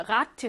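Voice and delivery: "라트" leaned on as the stressed ending; stress on final syllable. Shown as a demonstration. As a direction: put the word's weight on "라트". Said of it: "얘는 많이 끌어내려".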